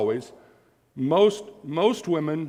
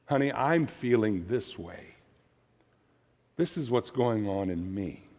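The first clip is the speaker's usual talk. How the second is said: soft I statement; 4 semitones lower, 5 dB quieter than usual. Shown as a demonstration. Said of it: "I statements do not usually cause defensiveness".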